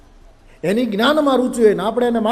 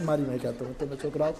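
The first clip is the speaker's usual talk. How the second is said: mock sobbing; 2 semitones lower than usual. A narrator's reading. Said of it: "રોવા માંડ્યા, હિબકે ચડ્યા".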